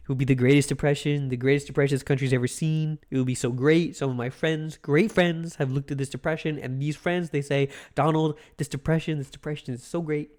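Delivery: lightly voiced Trump, boastful and low-key; a mild hint of Trump bragging; Donald Trump impression. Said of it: "that was my big Donnie T impression".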